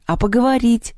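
high, pleading little question; plaintive. A narrator's reading. Masha asks the sleepy cat to talk, plaintive. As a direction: ask it as a small complaint. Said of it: "жалобно спросила Маша".

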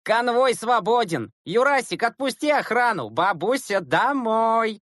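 high, excited mock commands; gleeful schoolboy heckling; jeering. A narrator's reading. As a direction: call out teasing orders in a high voice. Classmates keep jeering at the boy.

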